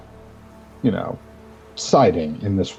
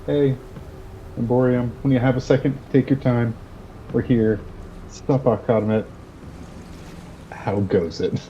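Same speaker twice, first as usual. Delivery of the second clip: magically amplified voice; 4 semitones higher, 3 dB quieter than usual. Acted. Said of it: "just, like, a little bit louder".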